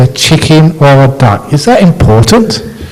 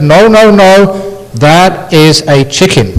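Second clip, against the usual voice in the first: insistent wife; 4 semitones higher than usual. Acted.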